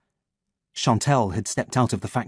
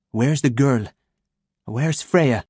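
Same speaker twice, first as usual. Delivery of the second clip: stern demand; slower than usual. Acted. Chantal demanding, foreign voice.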